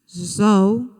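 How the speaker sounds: "Zol" alone, drawn out and firm; isolated stressed syllable. Shown as a demonstration. Teacher answering which syllable is tonic, firm stressed "Zol". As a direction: give "Zol" as the strong syllable by itself. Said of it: "Qual é a sílaba".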